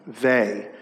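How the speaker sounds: a single they, set apart and falling; stress on they. Shown as a demonstration. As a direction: repeat they alone with falling weight. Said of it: "I want to emphasize the word".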